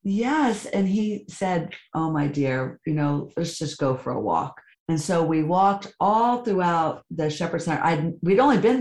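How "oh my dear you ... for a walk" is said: calm her kindly; gentle priest. Retold or imitated. Priest answering her plea with gentle calm. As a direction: lower and soft.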